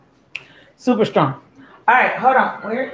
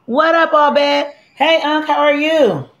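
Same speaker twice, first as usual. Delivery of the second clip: cheery greeting; 7 semitones higher than usual. Real, not acted. Greeting viewers on a live stream.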